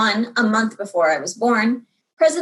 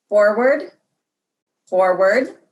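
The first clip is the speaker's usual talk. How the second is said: astronaut on the radio; slower than usual. A narrator's reading. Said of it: "he said".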